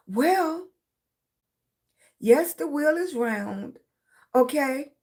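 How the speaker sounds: slow, drawn-out agreement before objecting; mock concession. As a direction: concede it slowly, with a but coming. Her grudging reply to the teachers.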